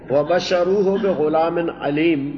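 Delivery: slow measured recitation of the verse; Quran recitation. Shown as a demonstration. Teacher reciting the verse to his students, slow measured recitation. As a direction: draw the Arabic out, reciting.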